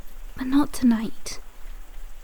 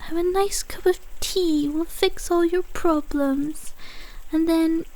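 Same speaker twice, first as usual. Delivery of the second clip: higher, sing-song mock reassurance; mocking nurse imitation; 4 semitones higher than usual. Mimicking the nurse reassuring a patient, mocking. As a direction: parody a soothing nurse, pitched up. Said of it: "She told you about".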